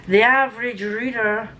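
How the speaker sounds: lightly put-on Scottish accent. Real, not acted. Naming a fellow reader's channel, in an amateur Scottish accent. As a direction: slip into a rough Scottish accent. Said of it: "say it in a Scottish accent".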